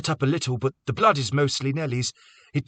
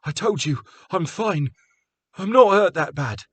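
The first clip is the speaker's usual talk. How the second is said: stubborn; 11 semitones higher, 6 dB louder than usual. A narrator's reading. Carter stubbornly refusing.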